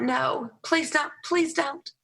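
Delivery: a touch of high, mock-pleading; slow, high, half-comic begging; inner pleading. Speaker silently pleading not to be asked, mock-pleading. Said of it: "And I thought".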